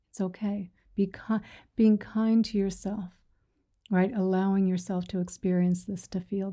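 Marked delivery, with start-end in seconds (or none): 0.1-0.7 whisper. Real, not acted. Consoling a grieving listener.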